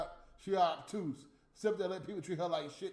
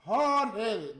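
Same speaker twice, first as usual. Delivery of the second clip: louder scornful jab; fed-up, raised-voice jab; 2 semitones higher, 7 dB louder than usual. Real, not acted. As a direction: bark the insult. Scornful repeat.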